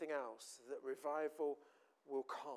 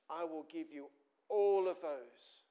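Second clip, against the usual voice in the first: devil's offer; 5 dB louder, slower than usual. Acted. Devil's offer voiced loud, slow.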